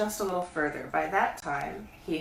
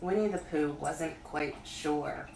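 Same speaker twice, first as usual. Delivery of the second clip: Pooh's bear voice; 3 semitones lower, 4 dB quieter, slower than usual. Acted. Pooh's doubtful voice.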